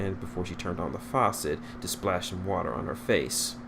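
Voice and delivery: plain reading voice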